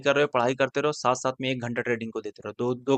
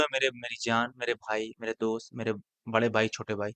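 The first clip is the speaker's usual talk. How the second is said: affectionate coaxing; 2 semitones lower, 4 dB quieter than usual. Real, not acted. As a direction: coax them gently, one endearment at a time. Coaxing viewers with terms of endearment.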